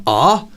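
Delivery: light retold cry of being hit; imitated cry. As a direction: mimic the front man's reaction to being shot. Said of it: "The front man went".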